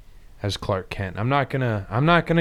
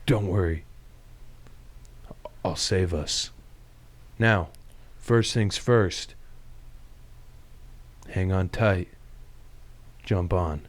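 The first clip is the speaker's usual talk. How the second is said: Superman voice; 4 semitones lower, 6 dB quieter, slower than usual. Acted. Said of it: "as Superman".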